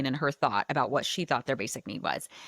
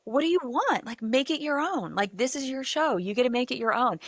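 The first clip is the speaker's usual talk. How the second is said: encouraging; 7 semitones higher than usual. Retold or imitated. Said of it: "he said it in the most beautiful way".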